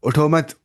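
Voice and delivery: "उठो मत" said as one unit; grouped as उठो मत. Shown as a demonstration. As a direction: join मत onto उठो without a break. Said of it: "उठा नहीं है".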